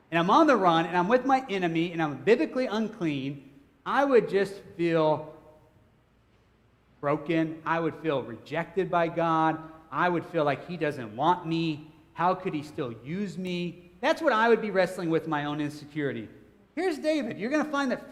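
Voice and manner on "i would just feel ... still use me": slow, heavy-hearted musing; understated dejection. Acted. Preacher imagining being rejected by God, understated dejection. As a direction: let each phrase sink slowly, mildly downcast.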